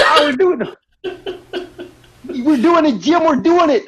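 high, loud, excited chant; Cody impression. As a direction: repeat it like a happy kid. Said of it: "I can't really do Cody's voice".

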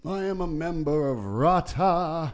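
pompous old Brit, lightly voiced; wobbly elder British voice. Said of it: "the wobbly elder British voice".

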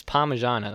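PARMIGIANA with a weak "muh" in the middle; local accent. Shown as a demonstration. Arguing it's how we say it, Parmigiana with reduced i. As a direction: say Parmigiana as "par-muh-zhana". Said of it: "That's how we say it in our accent".

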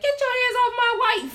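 put-on very high, loud child's warning; possessive little daughter. Daughter warning off the man hugging mom, high loud imitated child voice. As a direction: imitate an indignant kid, shrieky high. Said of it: "she was like".

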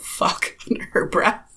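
muttered, voiceless swear under the breath; mumbled curse. Acted. Player's character turns back to the stranger, mumbling under her breath. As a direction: let it slip out almost whispered. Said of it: "the little mumble of".

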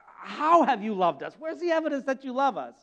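smug, sneering question; smarmy sarcasm. Acted. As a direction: sneer back at God. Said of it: "smarmy, self-righteous, sarcastic attitude".

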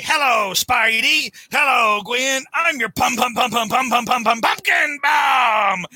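singsong Goblin taunt. Retold or imitated. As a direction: drag out the pum pum like a gleeful villain.

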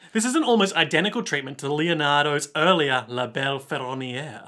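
a light mock French accent on the names. Host reading art text, slipping into mock French accent. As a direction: toss in a bit of French accent. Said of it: "don't know why I did a French accent".

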